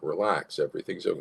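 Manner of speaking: easy, settling answer; calm reassurance. Acted. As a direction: soothe an anxious person.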